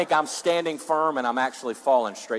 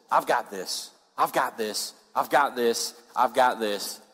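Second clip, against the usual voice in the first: repeated, evenly insistent claim; acted self-assurance. Preacher voicing those fallen from grace, mildly insistent. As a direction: voice someone mildly insisting they are in control.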